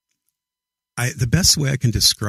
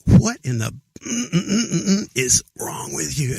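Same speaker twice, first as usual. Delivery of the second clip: put-on exasperated girlfriend; 6 semitones higher than usual. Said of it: "and she's like".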